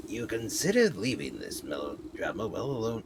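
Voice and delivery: lightly voiced old witch; a hint of a witchy granny, swooping in pitch. Witch musing about the weeping girl, lightly put-on witch voice. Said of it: "I thought she was speaking 'cause it says witch".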